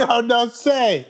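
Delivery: slow, laughing echo of the valet; laughing mimicry. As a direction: drag it out while cracking up.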